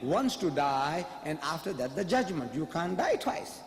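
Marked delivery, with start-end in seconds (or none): 0.0-2.5 scripture quote. Acted. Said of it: "It says".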